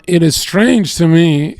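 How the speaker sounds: lightly imitated old-time American accent, slowed. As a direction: quote it slowly in an old cool American accent. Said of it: "old cool American accent".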